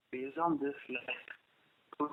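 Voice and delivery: very faint, far-off voice; speaking too softly into the phone; barely audible. Real, not acted. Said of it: "your voice is very low".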